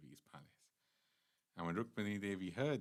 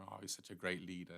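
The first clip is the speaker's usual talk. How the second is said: mock fawning praise; 3 dB quieter, faster than usual. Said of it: "He's praised like anything".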